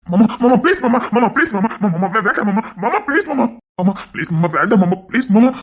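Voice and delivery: frantic, repeated begging; pleading. Acted. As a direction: beg him to stop, words tumbling over each other. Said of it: "என் அண்ணன் கெஞ்சிக்கிட்டு இருக்காண்டி".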